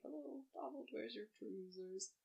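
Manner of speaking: put-on Scottish accent, slow, sing-song folk tune. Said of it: "when I do a Scottish accent".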